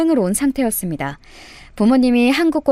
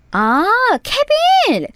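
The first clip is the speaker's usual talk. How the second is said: foreign man's voice; 11 semitones higher, much slower than usual. Acted. Foreign man introduces himself.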